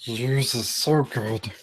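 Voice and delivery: slow, soft villain rasp; Doctor Claw. Shown as a demonstration. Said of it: "it's kinda Doctor Claw".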